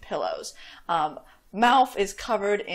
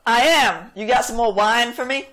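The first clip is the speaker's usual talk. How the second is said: annoying voice; 3 semitones higher, 7 dB louder than usual. Acted. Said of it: "He got an annoying voice".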